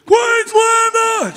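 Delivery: very high, long, loud holler; yelled rallying cry. Retold or imitated. Stranger yelling at him in the Colosseum, drawn-out shout. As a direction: belt it out, stretching every syllable. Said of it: "someone's yelled that out to you".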